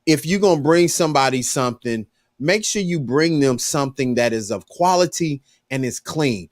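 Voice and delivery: calm correction, pitched low; a steady talking-to for the server. Retold or imitated. Customer lowers voice to lecture the young waiter, firm and calm. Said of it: "I said, "Young man".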